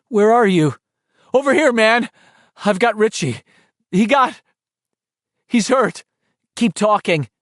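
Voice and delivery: calling out. A narrator's reading. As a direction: call to find each other.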